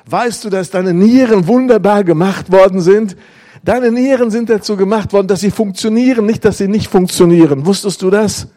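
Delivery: lightly voiced eager son calling his mother; excited son on the phone. Son excitedly tells sick mother.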